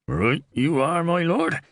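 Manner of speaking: lifted, eager reply, rising at the end; gleeful relish. A narrator's reading. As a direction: answer as if promised a treat. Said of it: "sounded as if about to enjoy a rare treat".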